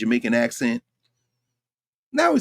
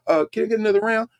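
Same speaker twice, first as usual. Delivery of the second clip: mock rich patron; 8 semitones higher, faster than usual. Mocking rich people at leisure.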